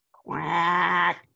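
a lightly voiced duck reply; duck's quack. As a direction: answer like a tired duck. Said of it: "The duck answered".

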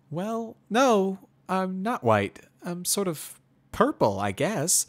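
high, loud, musing pony; mare voice, considering. Acted. Pony answers about her fur.

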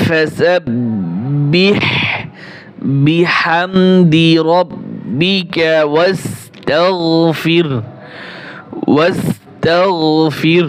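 very slow tajweed chant with a rising hold; Quran recitation. Shown as a demonstration. Teacher demonstrating the verse twice, slow recitation. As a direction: draw out فسبح and بحمدي like a recitation. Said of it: "এখান থেকে ধরেন".

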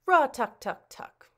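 knocking sound. Acted. Knock at the door.

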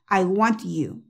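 'I want you' joined up with an unexploded T; linked, T made. Shown as a demonstration. Teacher showing how to join the words, T made. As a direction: glue 'want' to 'you', tongue touching for the T. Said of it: "pero haciendo la T".

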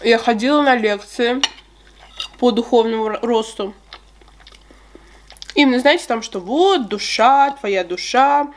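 chewing between words; talking while chewing. Real, not acted. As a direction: mouth partly full of cake. Seen 3: Bite taken at -3; pursed lips and chewing continue while she talks.

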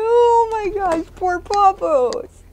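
high, slow coo of pity. Real, not acted. Owner cooing at the hiding dog, high pity. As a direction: coo over the poor dog.

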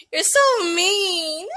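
high, teary laughter through the words; laughing and crying. Real, not acted. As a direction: laugh until it turns into tears. Mother laughing-crying with toddler.

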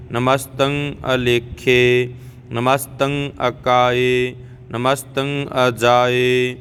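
slow, even chant-like prayer reading; level-toned devotional recitation, slowly; scripture recitation. Shown as a demonstration. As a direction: recite in steady measured couplets, drawing out each ending. Reciting scripture in even measured verse.

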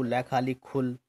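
built up syllable by syllable, लै खाली खुल; spelled out. Shown as a demonstration. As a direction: assemble खुल piece by piece in a chant. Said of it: "ऐसे एक एक करके नहीं पढ़ना होगा".

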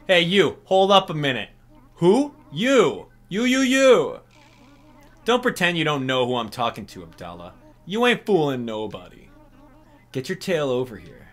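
grumpy mole barking at the player; Mister Resetti voice. Acted. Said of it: "I do a very good Mister Resetti".

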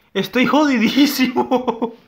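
mock-dramatic wail at the losing battle; mock despair. Real, not acted. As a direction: overplay the despair. Lamenting losing the fight.

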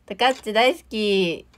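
drawn-out, cutesy "love you"; affectionate idol-style declaration on request; sweet fan-service confession. Pretend. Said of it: "いきますよ".

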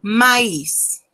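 "maíz" as French maïs, a-i split, s heard; "maíz" in two vowels, ma-is, with the s; maïs à la française, a-i séparés, s prononcé. Shown as a demonstration. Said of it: "Entonces digo".

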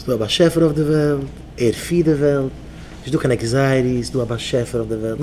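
low, soft affirmation; calm mantra. Shown as a demonstration. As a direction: recite it low and steady, for repeating. Models a mantra to repeat.

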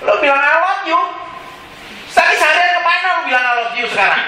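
high-pitched, lightly acted scolding; mock indignant challenge. God questioning a worshipper from heaven, mock indignant.

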